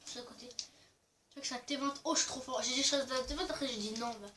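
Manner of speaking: distant, off-mic voice; speaking away from the microphone; far from mic. Real, not acted. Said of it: "vous m'entendez pas bien".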